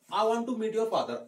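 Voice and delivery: slow, even model sentence; teacher giving a careful model line; slow and clear. Shown as a demonstration. Teacher showing students the whole sentence, slowly. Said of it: "want को थोड़ा I want बोलोगे ना".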